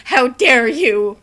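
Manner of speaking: hammed-up offended teacher; mock outrage.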